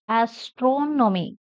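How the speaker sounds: "Astronomy" with a long, stretched "tron"; stress on tron. Shown as a demonstration. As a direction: say "Astronomy" slowly, leaning on TRON. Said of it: "Stress on tron".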